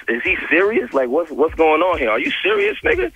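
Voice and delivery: mock-baffled, pitch climbing; retold disbelief. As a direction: question him as if he can't be serious.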